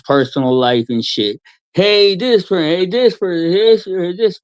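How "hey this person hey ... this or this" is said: mock gossip voice. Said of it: "fifteen minutes later".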